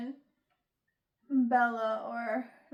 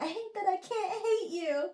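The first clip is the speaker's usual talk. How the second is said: mock crying; 7 semitones higher than usual. Mock tearful confession.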